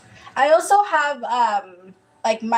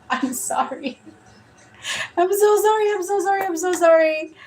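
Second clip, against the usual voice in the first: embarrassed laughing apology; 8 semitones higher than usual. Real, not acted. Embarrassed after reading mix-up.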